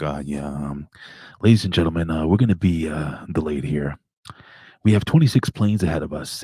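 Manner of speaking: lightly imitated pilot on the PA, halting with uhs; political pilot announcement. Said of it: "he gets all political".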